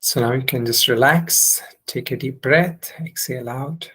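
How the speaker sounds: unhurried instructions with long pauses; guided meditation. Real, not acted. Teacher leading students into heart-centre meditation, unhurried guiding voice. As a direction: guide them gently into the practice, phrase by phrase.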